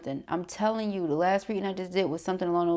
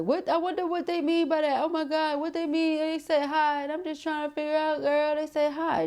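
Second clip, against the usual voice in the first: high, fretful overthinking voice; mock overthinker; 10 semitones higher than usual. Reader mocks a client overanalyzing a text, high and frantic. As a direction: play the anxious texter spiralling over a hi. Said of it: "Don't be like".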